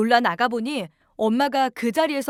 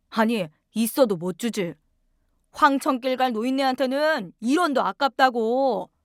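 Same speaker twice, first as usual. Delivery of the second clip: lightly voiced cold, dismissive husband; callous husband. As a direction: brush her off like she's nothing. (아내를 내쫓는 남편, 살짝 낮춘 냉담한 목소리)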